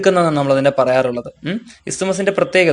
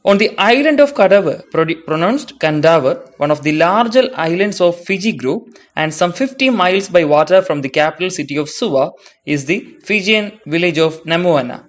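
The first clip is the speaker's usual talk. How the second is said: slow, careful read-aloud of English text; textbook reading; much slower than usual. Acted. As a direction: read each phrase out slowly for students. Reads English textbook passage aloud.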